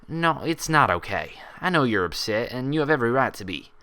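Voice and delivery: a touch of a sigh, owning the blame; understated remorseful sigh. Acted. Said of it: "Applejack sighed".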